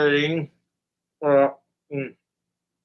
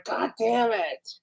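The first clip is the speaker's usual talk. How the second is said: softer, slow, higher "God damn it"; resigned mutter; 5 semitones higher, 5 dB quieter, slower than usual. Retold or imitated. Guy stuck in the face-fart, muttering slowly in defeat. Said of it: "You'd be sitting there going".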